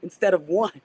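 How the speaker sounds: lightly imitating Eddie Murphy's African prince accent; mild mock Coming to America accent. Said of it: "my Eddie Murphy voice from Coming to America".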